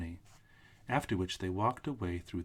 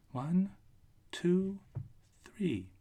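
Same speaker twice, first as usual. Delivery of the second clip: solemn voice; 10 semitones higher, 4 dB louder, much slower than usual. A narrator's reading. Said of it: "in a solemn voice".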